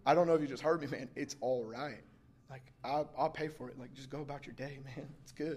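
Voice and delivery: soft, low-key reassurance; reassuring. Retold or imitated. Truck owner telling driver to go about his day, quiet reassurance. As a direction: let it drop gently, easygoing and forgiving.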